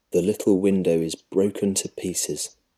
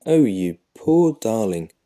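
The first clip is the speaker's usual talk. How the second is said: a touch louder, lightly voiced mother crying out in pity; 3 semitones higher, 5 dB louder than usual. A narrator's reading. Mother pities her son who claims hunger, crying out tenderly. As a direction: coo it out to the poor hungry son. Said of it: "Missus Dale cries".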